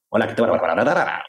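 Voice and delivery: "Hola, ¿qué tal?" as a melodic pattern demo; Spanish melody. Shown as a demonstration. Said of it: "practice those types of melodic patterns".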